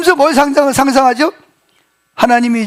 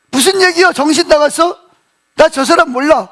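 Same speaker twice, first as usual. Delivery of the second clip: higher-pitched mock fluster at the start; flustered denial, retold; 4 semitones higher than usual. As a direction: act lightly rattled while brushing off an accuser. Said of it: "당황해가지고 뭐라 그래요".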